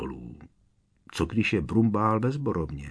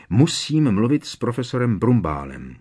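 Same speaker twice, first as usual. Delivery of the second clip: urgent shout, louder; 3 semitones higher, 5 dB louder than usual. Acted. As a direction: call it out, out of breath from running. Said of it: "křikl Harry".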